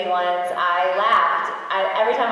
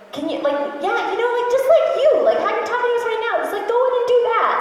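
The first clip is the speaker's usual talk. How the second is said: quoting the directors; 13 semitones higher, 4 dB louder than usual. Retold or imitated. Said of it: "they were like".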